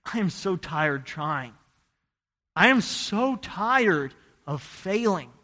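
slow, drawn-out plea of exhaustion; weary confession. Retold or imitated. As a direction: recount being worn out, word by word. Retelling his weary prayer at conversion.

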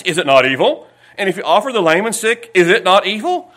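loud, emphatic Bible reading; preacher's scripture reading. Acted. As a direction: declaim the verse with rising challenge. Reads scripture forcefully aloud.

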